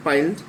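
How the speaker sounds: পাইলড said as a single syllable; one syllable. Shown as a demonstration. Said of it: "উচ্চারণ হবে একসাথেই". (পাইলড একসাথে উচ্চারণ)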